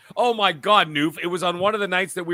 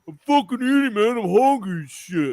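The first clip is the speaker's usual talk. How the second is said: a touch of a put-on defensive voice; lightly voiced annoyed eater; defensive gamer voice; 4 semitones higher than usual. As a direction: argue back with your mouth full. Eater arguing back.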